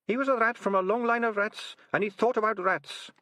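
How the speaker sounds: high cheery rat voice; a cheeky rat admiring; Sardines voice. Acted.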